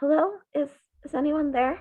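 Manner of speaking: gentle, high feminine voice. Game narrator voicing the voice a player hears after grasping the sword, soft feminine voice. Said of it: "a soft feminine voice".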